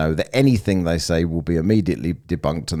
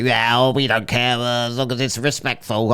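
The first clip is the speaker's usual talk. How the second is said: mocking impression of J J; 6 semitones higher than usual. S0 ridiculing J J's plea for respect, high mocking voice. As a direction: mimic J J's prim objection in a silly high voice. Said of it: "Everyone goes quiet, J J".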